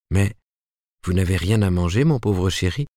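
mildly pitying, concerned question; tender compassion. A narrator's reading. Ruth finds Martin's shelves empty, tender compassion. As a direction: fuss gently over a poor darling. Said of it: "dit-elle avec une tendre compassion".

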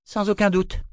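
high little voice laced with venom; high-pitched, spiteful agreement; small venomous voice. Acted. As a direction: agree with poisonous false sweetness. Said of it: "dit-elle d'une petite voix venimeuse".

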